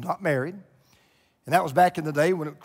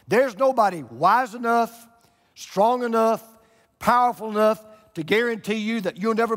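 loud, high proclamation; preacher's climax, loud and high; preaching at full force; 5 semitones higher, 5 dB louder than usual. Real, not acted. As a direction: drive it home to the congregation.

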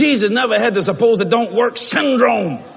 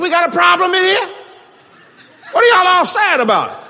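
raised, higher call to the room; 5 semitones higher than usual. Retold or imitated. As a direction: rouse a sad room. Confronting sad waiting room.

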